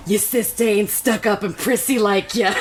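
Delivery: light Scottish-tinged hillbilly auntie; playful mock hillbilly-Scottish accent; hillbilly read as Scottish brogue. Shown as a demonstration. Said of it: "what I read it in is like this".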